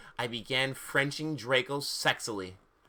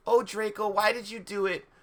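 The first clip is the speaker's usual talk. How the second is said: high, pleading tearful question; mildly acted tearful plea; 7 semitones higher than usual. A narrator's reading. Ebony questions Draco about Snape, mock tearful. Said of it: "I asked tearfully".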